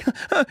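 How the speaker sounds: acted freaked-out breaths; imitated panicky gasps. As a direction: gasp as if hyperventilating. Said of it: "So I'm freaking out".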